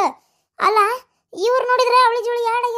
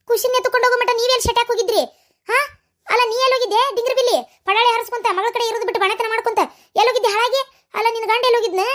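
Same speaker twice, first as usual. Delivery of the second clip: higher, furious berating; angry scolding; 4 semitones higher than usual. Acted. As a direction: tear into them for their neglect. Grandmother scolding the family. (ಕೋಪದಿಂದ ಬಯ್ಯುವುದು)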